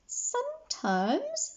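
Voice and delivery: very high, slow, pained word; strained. A narrator's reading. Hurt Miss Merriweather speaks from the floor, high and slow. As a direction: draw it out from the floor.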